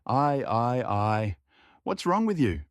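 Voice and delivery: high, loud alarmed cry; shouting cook. Acted. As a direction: cry out in alarm at his face. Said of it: "she shouted".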